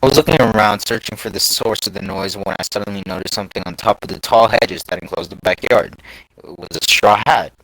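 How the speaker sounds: measured first-person narration; story reading. A narrator's reading. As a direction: read it out like an online scary story. Reads a scary story aloud.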